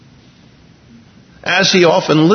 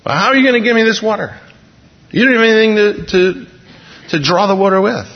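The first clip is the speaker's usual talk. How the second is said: skeptical woman at the well; 5 semitones higher than usual. Pretend.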